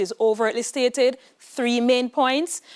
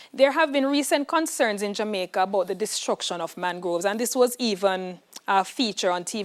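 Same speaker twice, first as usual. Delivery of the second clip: reading the question. Shown as a demonstration. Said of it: "here is your practice question".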